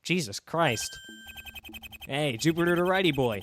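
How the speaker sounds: a playful madman toying with his lawyer; unhinged prisoner. Acted. Voices the unhinged prisoner Volper.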